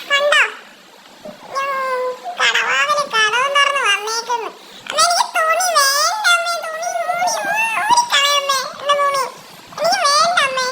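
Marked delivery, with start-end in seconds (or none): 4.9-10.7 put-on high, whining little girl begging mother; high nagging child's plea; whiny child. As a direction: whine like a fussy kid who won't wear clothes.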